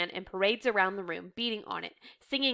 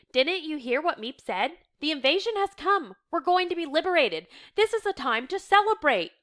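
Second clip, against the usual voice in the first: high, rousing, rising excitement; rally them to rejoice; jubilant urging; 7 semitones higher, 4 dB louder than usual. A narrator's reading. Reader voicing a man cheering up his housemate, jubilant.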